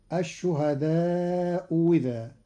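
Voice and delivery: الشهداء إذا said ash-shuhadau wiza; hamza as wi. Shown as a demonstration. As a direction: turn the second hamza of إذا into wi. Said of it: "وإبدالها واوا مكسورة".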